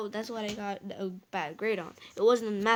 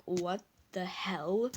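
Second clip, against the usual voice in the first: slow, hushed disbelief; dumbfounded brother; 4 semitones lower, much slower than usual. Retold or imitated. Teller mimicking brother on hearing the news, dumbfounded. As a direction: imitate stunned brother, drawn out in near whisper. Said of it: "my brother was even dumbfounded".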